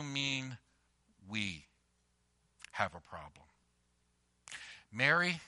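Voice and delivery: soft, low, gentle reassurance; tender Jesus. Retold or imitated. Jesus gently answering his mother Mary, soft and low. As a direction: speak gently to a worried friend. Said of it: "essentially what he's saying is".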